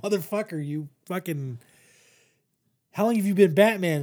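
half-acted furious girlfriend; retold angry outburst. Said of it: "she's pissed".

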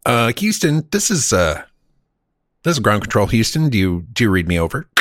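mock radio call to Ground Control; walkie-talkie voice. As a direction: play an astronaut on a walkie-talkie. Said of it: "it was all like this".

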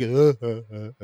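imitated distant chuckle, trailing off; put-on throaty laugh, dropping away; Seth Rogen. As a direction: mimic a huffing laugh fading down the street. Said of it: "like, very distant as I got down".

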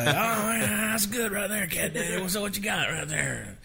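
high, thrilled Craig impression; excited producer. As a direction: sound blown away by the idea. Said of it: "And he was like".

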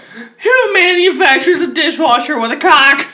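laughing. Real, not acted. Laughing question.

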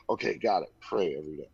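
whispered acknowledgement; whispered repeat. Retold or imitated. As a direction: whisper it back to yourself. Echoing sponsor's instruction.

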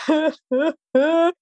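high-pitched mock sobbing gasps; short, high gasps, imitating a cry; imitated crying gasps. Athlete retelling crying into her partner's armpit, imitated sobs. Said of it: "he let me literally cry".

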